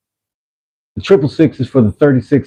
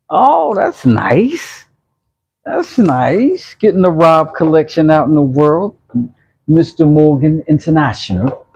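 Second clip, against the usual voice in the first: hammed-up high British accent; 7 semitones higher than usual. Teasing viewer Rob about his bowl going to Mexico, mock British accent. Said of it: "I did the accent".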